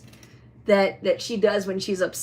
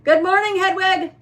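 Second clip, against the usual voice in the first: high, loud sing-song hello to a toy owl; loud greeting; 9 semitones higher, 6 dB louder than usual. Real, not acted. Owner greeting her toy owl Hedwig loudly and brightly. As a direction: call out brightly to wake her up. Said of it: "I was a little too loud".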